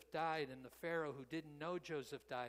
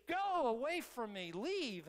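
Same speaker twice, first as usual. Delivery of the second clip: higher and louder, a king's anguished cry to be left alone; anguished shout; 6 semitones higher, 7 dB louder, slower than usual. Retold or imitated. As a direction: shout it out like a broken, grieving king. Pharaoh in agony dismisses Israel.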